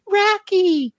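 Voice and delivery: very high mock call; high, exaggerated yell of a name; imitated yell. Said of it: "But she just yells".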